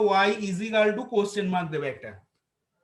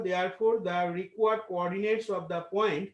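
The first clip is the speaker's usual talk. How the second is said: dictating; much slower than usual. Acted. Dictating answer to class.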